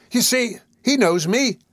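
high, slow woman's appeal; appealing young woman. A narrator's reading. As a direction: appeal high and drawn-out to bystanders. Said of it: "appealing to the bystanders".

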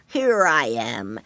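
very low, slow creature voice; warbling snail. A narrator's reading. Big snail announcing himself at the window, low and slow. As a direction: drop low and draw it out. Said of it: "warbled the snail".

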